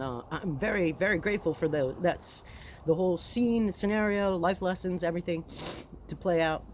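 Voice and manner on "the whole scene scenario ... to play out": talking through sniffles; sniffly stuffed-up voice; sniffling. Real, not acted. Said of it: "Pardon the sniffles".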